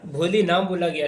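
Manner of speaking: ordinary delivery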